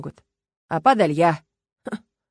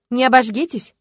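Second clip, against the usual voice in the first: испугалась; 4 semitones higher, 6 dB louder than usual. A narrator's reading. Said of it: "испугалась Люба".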